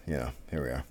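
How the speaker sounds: mid-yawn. Real, not acted. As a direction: talk through a big yawn. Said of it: "Oh, I yawned".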